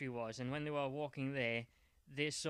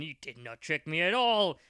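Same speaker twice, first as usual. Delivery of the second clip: defiant retort; 10 dB louder than usual. Acted. Jack Bauer defiant retort.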